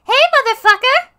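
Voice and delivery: high loud yell; shouting. Acted. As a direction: yell it across the room. Angie yells greeting.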